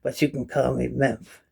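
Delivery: slow, drawn-out horror host impression; Vincent Price. Boasting he outdoes the film star, slow horror-actor impression. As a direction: play a sinister doctor introducing himself, slowly. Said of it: "now I can play Vincent Price".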